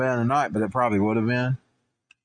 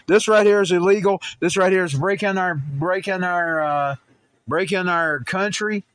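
indignant; 5 semitones higher than usual. Real, not acted. Angry rant about border crossings.

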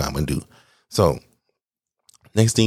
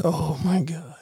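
high, small voice of dismay; imitated quiet, high alarm; mock dread; 12 semitones higher, 5 dB quieter than usual. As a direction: squeak it out softly in dread. Dread as the gulp comes.

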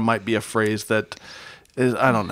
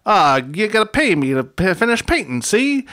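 put-on whiny teen Wally; 7 semitones higher, 3 dB louder than usual. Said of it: "Wally says".

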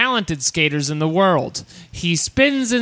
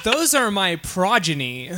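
mock American accent slipping into British; badly faked British-tinged American accent; goofy accent slip. Mother claiming her children, goofy slipping accent. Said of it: "this goofy ass British accent".

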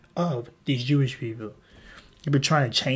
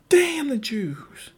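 slow, higher whisper of a villain; mock sinister Hitler; 9 semitones higher, much slower than usual. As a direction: hiss it slowly like a caricature tyrant. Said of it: "And he's like".

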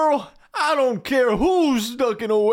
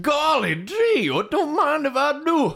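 giddy; 6 semitones higher than usual. Acted. Father giddy over free ticket.

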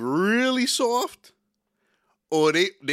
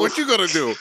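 a touch of a tough guy's challenge, louder; menacing ex; 5 dB louder than usual. Retold or imitated. The ex staring him down, a mild tough challenge. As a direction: dare him, lightly voiced. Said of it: "this nigga looked at me like".

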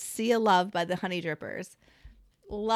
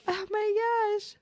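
high, slow, weepy with laughter; real helpless laughter; 13 semitones higher, much slower than usual. Real, not acted. Friend overcome by the Flint discovery, laughing to tears. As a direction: gasp it out at the end of a laughing fit. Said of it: "good laughs like this".

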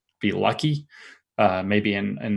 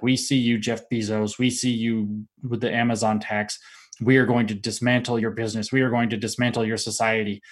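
droning cult voice. Retold or imitated. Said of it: "almost this weird droning cult voice".

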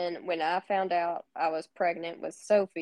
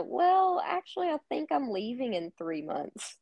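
retold sheepish confession, starting high; reluctant admission; 5 semitones higher than usual. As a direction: ease reluctantly into awkward news, high opening. Retells an awkward resignation announcement.

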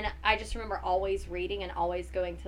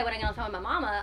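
Carolina accent thickening on "mama"; heavier Carolina accent; much faster than usual. Shown as a demonstration. Guest showing how she talks about mama, heavier Carolina accent. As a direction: let the home Carolina accent get heavier. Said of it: "my accent will start getting heavier".

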